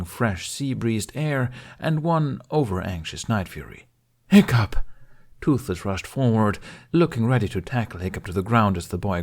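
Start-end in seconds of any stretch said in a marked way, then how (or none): 4.3-4.7 loud call of his name. Acted. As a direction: shout his name across the beach. Dragon rushes to greet boy.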